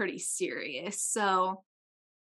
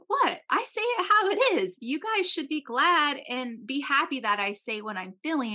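mock going off; 4 semitones higher than usual. Friend defending her bluntness to the group, high indignant rant. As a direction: imitate an indignant friend, pitched way up then easing down. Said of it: "And so she just goes off".

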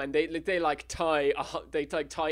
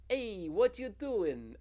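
Stretch voice; 6 semitones higher, slower than usual. Acted. Voicing Stretch again.

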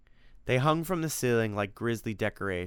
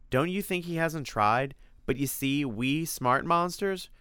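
higher, lightly voiced knowing monster; cagey monster; 6 semitones higher than usual. Freddy explains how monsters escape Dracula, slightly cagey. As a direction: boast a little of being smart.

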